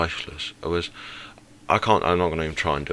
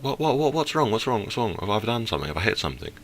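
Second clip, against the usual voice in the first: imitating a flustered woman, pitched up high; the driver flustered to the strangers at her window, mock panic; panicked driver; 5 semitones higher than usual. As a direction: mimic her panicky what's wrong. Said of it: "she was like".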